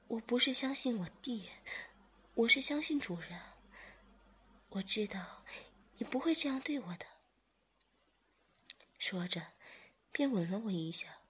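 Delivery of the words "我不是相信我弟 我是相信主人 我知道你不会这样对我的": a touch of a smile. Acted. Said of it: "志明笑着说".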